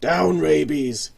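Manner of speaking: slow, firm order to the dog; the boss commands his dog; stern command. Acted. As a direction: hold the dog back sharply. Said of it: "commanded V".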